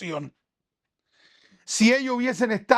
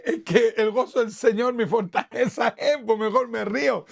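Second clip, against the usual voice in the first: laughing. Real, not acted. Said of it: "¿y cómo se ríe?".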